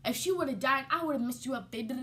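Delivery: mock furious cousin scolding; angry cousin. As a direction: tell her off for the drink. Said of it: "my cousin is like".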